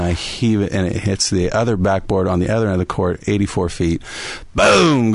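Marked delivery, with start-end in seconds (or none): 4.5-5.1 high, loud sound-effect boom; exclaimed crash. Retold or imitated. Coach retelling his heaved ball hitting the backboard, loud boom. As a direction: punch out the impact.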